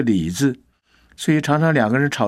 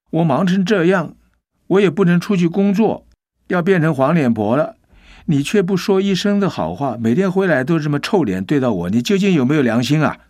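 higher, louder, a retold wife's furious complaint; loud angry complaint; 5 semitones higher than usual. Wife scolds the husband for never praising her, angry and raised. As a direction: scold him as a worn-out wife, half acted. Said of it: "就很大声地对她先生说".

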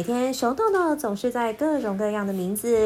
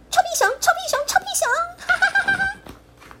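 gleeful teasing; 4 dB louder than usual. Acted. Pipi gleefully taunts the bear with the nickname. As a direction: taunt him like a cheeky monkey. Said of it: "皮皮越是叫得很开心".

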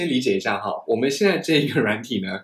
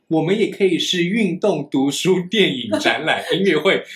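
building excitement; 5 semitones higher, 3 dB louder, slower than usual. Retold or imitated. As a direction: list read faster and louder to a peak. Reading profile list with rising excitement.

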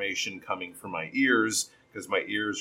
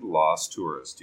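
"lost tourist" dropped lower; lower, slower ending; 5 semitones lower, slower than usual. Shown as a demonstration. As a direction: let "lost tourist" fall low at the end. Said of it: "you can lower your voice a little bit more".

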